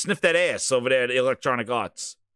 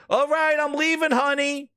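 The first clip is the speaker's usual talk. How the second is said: mock Master Chief; 8 semitones higher than usual. Chief replies in the skit.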